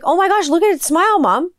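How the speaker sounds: put-on high, delighted child gushing; excited kid. Son gushing to mom about the toy's smile, high and excited. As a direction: squeal with delight over the toy.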